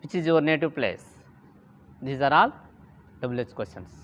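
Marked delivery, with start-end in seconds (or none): 0.0-1.1 quick question falling away on "place". Shown as a demonstration. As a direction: ask it briskly, letting "place" drop at the end. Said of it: "Double H questions can be said in falling tone".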